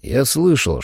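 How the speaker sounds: ordinary delivery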